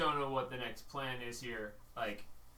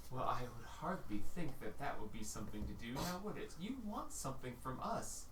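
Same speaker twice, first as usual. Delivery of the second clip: unearthly voice. Acted. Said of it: "And you hear".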